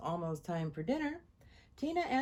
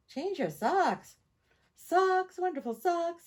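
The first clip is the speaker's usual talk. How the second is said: excited; 9 semitones higher, 7 dB louder, slower than usual. A narrator's reading. Tina defiant, kids complain.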